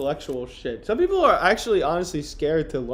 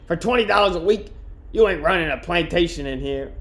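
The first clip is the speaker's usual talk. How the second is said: louder, raised retort; defiant worker voice; 3 semitones higher, 3 dB louder than usual. Acted. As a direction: snap back at the boss. Jones retorts to boss.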